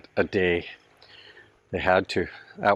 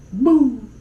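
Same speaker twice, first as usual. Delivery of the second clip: sudden high shout; loud shout of "Boom!" at the giant spider; 6 dB louder than usual. Real, not acted. Startled by huge spider.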